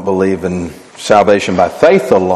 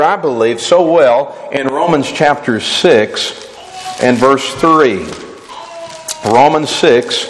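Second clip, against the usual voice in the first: emphatic preaching; 4 semitones higher than usual. Real, not acted. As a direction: preach the verses with punchy question-and-answer. Preaches scripture to a congregation.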